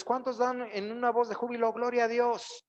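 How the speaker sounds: high, loud call to praise; rally the congregation; rousing call. Shown as a demonstration. Preacher calling the church to shout praise, in a high, loud call. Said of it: "Si yo les digo a ustedes".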